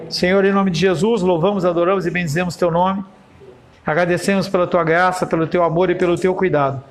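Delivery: oração pastoral solene e pausada. Acted. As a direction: ore pela congregação, com reverência. Leads a closing prayer. (oração fervorosa de culto)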